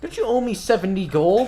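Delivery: loud, high accusing question; accusing shout. Acted. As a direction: call him out sharply. Shali accuses the gnome.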